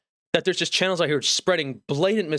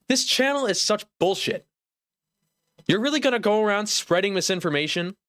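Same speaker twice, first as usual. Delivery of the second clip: higher-pitched, indignant rant; mock outrage; 5 semitones higher than usual. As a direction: call out the channel in mock disbelief. Ranting at a mislabelled goblin video.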